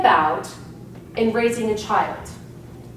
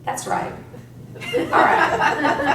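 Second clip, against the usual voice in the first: surprised realization; 5 semitones higher, much slower than usual. Retold or imitated. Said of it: "one day you're like".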